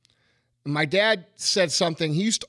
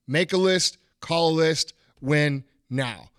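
rhythmic chant of the motto; dad's rhythm; 2 semitones lower than usual. Shown as a demonstration. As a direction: make a list, call the list, win now in a steady chanted beat. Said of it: "I'm saying it in that rhythm".

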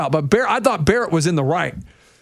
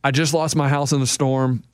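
guilty apology; 6 semitones lower than usual. Retold or imitated. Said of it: "he was just feeling so guilty".

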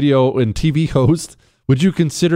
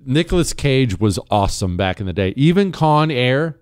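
normal talking voice

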